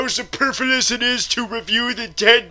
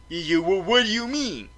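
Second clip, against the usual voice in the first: normal talking voice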